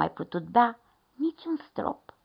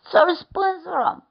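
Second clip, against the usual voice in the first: slow, loud bear proposal; big bear suggesting punishment; bear grumble; 11 semitones higher, 7 dB louder, slower than usual. A narrator's reading. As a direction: grumble the verdict. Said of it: "a mormăit".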